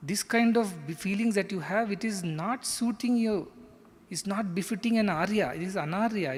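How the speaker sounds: mild, measured reproof; scolding Krishna. Acted. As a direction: admonish him like a teacher correcting a pupil. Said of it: "he straight away scolds him".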